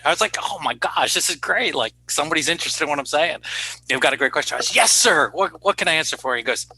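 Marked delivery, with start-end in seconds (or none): 0.4-4.6 bright, higher, eager replay of his own thrill; retold excitement. Young doctor retelling his delight at a question, mildly excited. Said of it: "And I was so excited". 4.7-6.4 bright, higher, eager replay of his own thrill; retold excitement. Young doctor retelling his delight at a question, mildly excited. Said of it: "And I was so excited".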